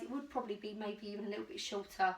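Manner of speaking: out of breath from trying on clothes; puffing between words. Real, not acted. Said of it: "it's not a shock that I'm out of breath".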